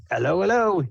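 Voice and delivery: jovial entertainer greeting the crowd; hearty greeting. Acted. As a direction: boom a cheery welcome. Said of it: "he says heartily".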